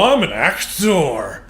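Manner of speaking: slow, lightly voiced pompous actor; mock pompous actor. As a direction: puff yourself up, slowly. Mocking Murray's self-importance.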